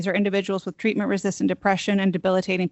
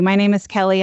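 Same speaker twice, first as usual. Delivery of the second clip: louder, projecting so the room can hear; speaking up; 6 dB louder than usual. Real, not acted. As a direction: push the voice out after a soft start. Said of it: "I have a soft voice".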